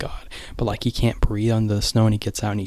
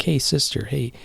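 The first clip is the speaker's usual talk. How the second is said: put-on higher-pitched, eager kid pestering; imitating an excited little kid; eager calling; 5 semitones higher than usual. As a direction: plead lightly for someone to come and look. Kid calling sister to look.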